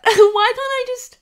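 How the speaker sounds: high, loud, slowed laugh through the words. Real, not acted. To her viewers, amused at her own struggle, laughing. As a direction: laugh it out at yourself.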